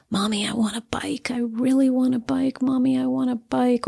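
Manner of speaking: a hint of a child nagging for a bike; pleading child. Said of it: "but the child is saying".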